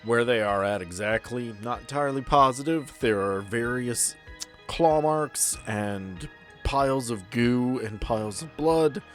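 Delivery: ordinary talk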